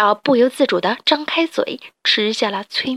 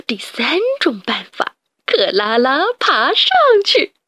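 lightly voiced silly rat; eager rat sidekick; 3 semitones higher than usual. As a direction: proudly list the plan.

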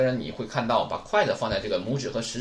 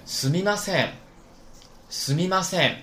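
model reading; 5 semitones higher than usual. Shown as a demonstration. Teacher models sorry for the class, clearly. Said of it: "对不起怎么说".

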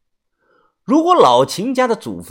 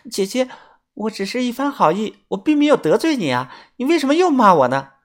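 mild hurt protest; 8 semitones higher than usual. A narrator's reading. Wronged girl protests.

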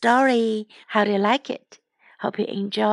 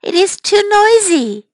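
put-on high, grumpy old farmer complaint; 9 semitones higher, 5 dB louder than usual. Shown as a demonstration. Teacher voicing the grumpy farmer for kids, cranky.

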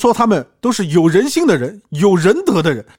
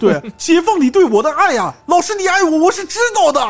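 mock lovesick disciple; 13 semitones higher, 4 dB louder than usual.

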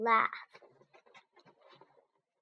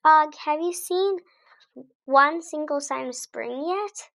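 eager question; 6 semitones higher, 6 dB louder than usual. A narrator's reading. Hamster narrator asks Og eagerly.

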